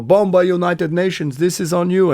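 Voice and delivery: lightly put-on accusing soldier voice; a touch of a blaming Serbian soldier; quoting a soldier. Soldiers blame the band again.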